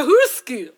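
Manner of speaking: Hursku with a Scottish-sounding vowel; Scottish-sounding Afrikaans. Real, not acted. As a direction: mangle "Hursku" as if it were Scottish. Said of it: "You sound Scottish".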